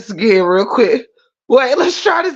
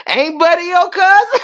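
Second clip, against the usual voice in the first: high voice cracking into laughter; tearful, helpless amusement; crying with laughter; 7 semitones higher than usual. Real, not acted. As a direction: squeeze the question out before cracking up. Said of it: "wet my face is right now from crying".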